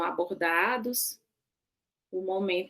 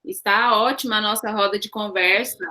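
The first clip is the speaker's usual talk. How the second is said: louder, repeating for a listener; to someone hard of hearing; 4 dB louder than usual. Real, not acted. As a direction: raise the voice so she hears. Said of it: "Não tô te ouvindo".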